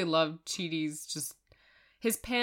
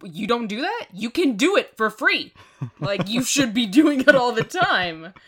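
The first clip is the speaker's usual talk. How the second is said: Mindy impression; 5 semitones higher, 10 dB louder than usual. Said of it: "I feel like Mindy would describe".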